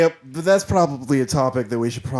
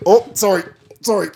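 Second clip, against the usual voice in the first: a touch of Midwest on sorry, louder; Midwest accent; 7 semitones higher, 5 dB louder than usual. Retold or imitated. Singer slips into Midwest accent apologising. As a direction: slip into a Midwest lilt. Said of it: "I got Midwest for a second there".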